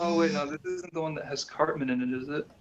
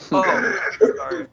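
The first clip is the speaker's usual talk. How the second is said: high, loud sassy character voice; Caroline sass; 9 dB louder than usual. Acted. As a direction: snap back in a squeaky sassy voice. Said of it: "That's Caroline sass".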